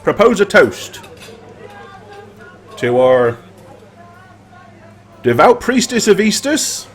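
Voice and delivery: raising a toast to the heroes; rousing tavern toast, building to cheers; toast speech. Acted. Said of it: "he says".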